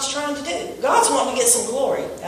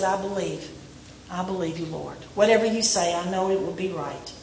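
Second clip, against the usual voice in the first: much softer, lower, humble reply; meek belief; 5 semitones lower, 9 dB quieter than usual. Retold or imitated. Martha answering Jesus humbly, soft and meek. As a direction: hush it like a humbled sister.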